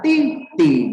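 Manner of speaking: "ti, ti" as a level first tone, then a falling fourth. Shown as a demonstration. Teacher repeating the correct reading for a learner, first and fourth tone. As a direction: model "ti, ti" syllable by syllable with distinct tones. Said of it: "ada nada pertama dan keempat".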